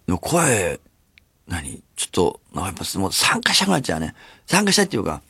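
ordinary delivery

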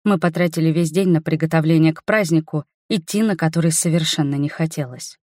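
ordinary delivery

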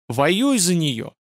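high, raging outburst; furious yelling. Acted. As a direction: bellow it in fury. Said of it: "заорал Радша в бешенстве".

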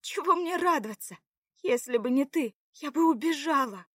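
high, loud indignant retort; irritated. A narrator's reading. Заряна blames the man for her captivity, irritated. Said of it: "произнесла раздражённо Заряна".

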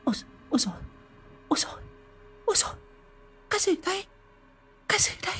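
very high, frightened rapid asking; panicked questions. A narrator's reading. Wife wakes from nightmare, very high frightened questions. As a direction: gasp out the fear. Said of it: "hỏi dồn".

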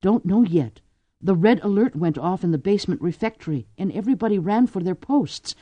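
panting; out of breath from the stairs. Acted. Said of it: "panted Drew".

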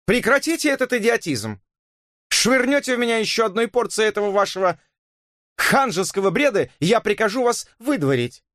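high, clipped angry cry; sharp outburst. A narrator's reading. Elisa furiously orders Robert to stop, high and sharp. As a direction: snap it out in fury. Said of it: "Она отрывисто выкрикнула".

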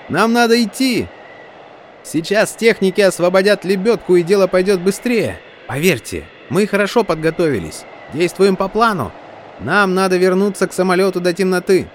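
high, loud urgent shouting; shouting over wind. Acted. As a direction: yell the plan over the storm. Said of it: "прокричал Кайл".

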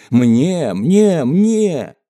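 loud, high, grabby cries; impatient clamour. Acted. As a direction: beg for it over one another. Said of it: "нетерпеливо потянулась к пузырьку". (нетерпеливые наперебой выкрики)

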